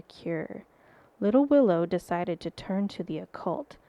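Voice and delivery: measured, mildly spooky story reading; a touch of creepy narrator; creepy storyteller. Acted. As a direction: tell it like a ghost tale, lingering on key words. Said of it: "a creepy voice, like a good storyteller".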